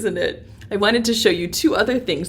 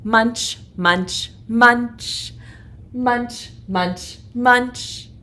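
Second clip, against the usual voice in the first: rhythmic chomping chant; munching chant; 2 semitones higher, much slower than usual. Shown as a demonstration. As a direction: chant it like chewing leaves. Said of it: "Can you read it with me".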